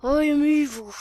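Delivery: hammed-up evil pride; proud villain. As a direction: declare it with villainous relish. Villain proudly declares himself.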